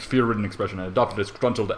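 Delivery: ordinary delivery, nothing marked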